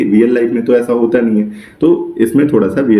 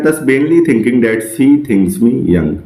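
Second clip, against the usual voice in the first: slow poem recital; much slower than usual. Shown as a demonstration. Teacher reading a Shakespeare sonnet line to students, very slowly. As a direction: read the verse very slowly, word by word.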